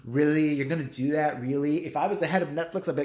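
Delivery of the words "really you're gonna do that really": sarcastic copy of the "Really?" complaint; mocking "really?" whine.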